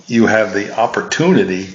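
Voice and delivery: words stretched by a yawn. Real, not acted. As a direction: talk through a real yawn. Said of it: "excuse me for yawning".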